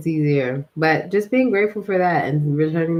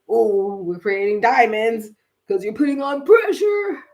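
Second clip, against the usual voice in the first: mocking mock-shout; 2 semitones higher than usual. Mocking a pressured saying.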